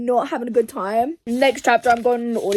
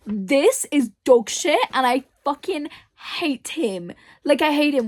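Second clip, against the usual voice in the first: emphatic, fed-up rant; angry; 3 semitones higher than usual. Real, not acted. Reader ranting about a hated book character, angry. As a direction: spit out real anger at a character. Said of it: "I'm, like, actually full on angry".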